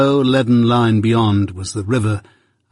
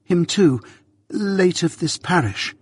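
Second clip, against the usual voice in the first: gruff convict; 7 semitones higher than usual. Acted. Convict repeats inscription.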